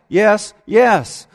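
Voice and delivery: normal talking voice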